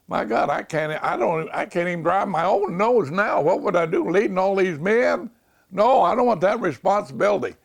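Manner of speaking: alarmed exclamation. Retold or imitated. Retold refusal of officer school.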